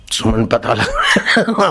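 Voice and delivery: slow, laughing through the line; laughing repeat. Acted. Ram repeating the order to Suman, slow and laughing. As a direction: repeat it but laughter takes over. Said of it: "हम भी हंस रहे हैं".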